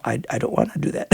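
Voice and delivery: soft, laughing refusal; husband telling his wife he won't go, laughing. Retold or imitated.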